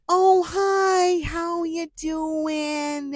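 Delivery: high, loud, slow chirpy voice; overly chipper greeting. Retold or imitated. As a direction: gush like an overexcited customer. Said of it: "the ones that are like".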